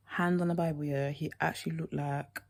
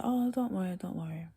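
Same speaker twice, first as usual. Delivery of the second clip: fading to whisper; 3 semitones higher than usual. Retold or imitated. Boy's reply, fading to whisper.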